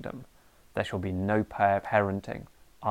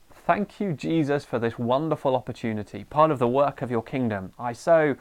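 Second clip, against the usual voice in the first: mock pious gratitude. Parent thanking Jesus for the fighting kids, mock-sweet prayer. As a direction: pray as if thrilled to be woken at night. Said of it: "You are probably not saying".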